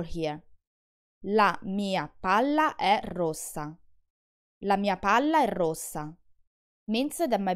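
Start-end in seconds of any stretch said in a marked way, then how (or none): 1.2-3.7 palla and rossa with the l and s held long; slow, hold the long ll in palla and ss in rossa; careful Italian doubles; double consonants held. Shown as a demonstration. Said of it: "you need to make sure that you say the double consonant". 4.6-6.1 palla and rossa with the l and s held long; double consonants held. Shown as a demonstration. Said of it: "you need to make sure that you say the double consonant".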